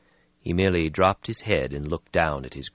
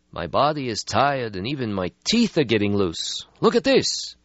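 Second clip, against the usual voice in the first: louder, higher, bitter complaint; bitter old vampire; 10 semitones higher, 4 dB louder than usual. Acted. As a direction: vent the weariness bitterly. Stretsky voiced in story.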